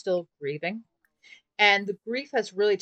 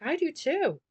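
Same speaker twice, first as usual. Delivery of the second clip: put-on higher girlish voice, sweet; voiced girlfriend; 9 semitones higher, 3 dB louder than usual. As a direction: say it like a smitten girlfriend. Girlfriend voiced in Sims story.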